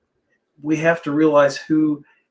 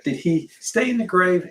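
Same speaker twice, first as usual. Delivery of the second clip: put-on higher, Argentine-accented English; mom's Argentine accent; 6 semitones higher than usual. Son imitating his mom asking about the grave, Argentine accent. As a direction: echo his Argentine mother with Spanish vowels. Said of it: "she has this beautiful, uh, Argentine accent".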